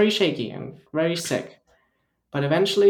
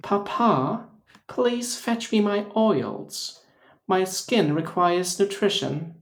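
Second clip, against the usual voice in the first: high, slow, hammed-up British; mock British accent; 4 semitones higher, much slower than usual. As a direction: play a pampered British child asking Papa. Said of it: "Just British shit".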